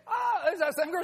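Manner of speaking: lightly voiced accusing girl. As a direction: lightly mimic her spotting someone.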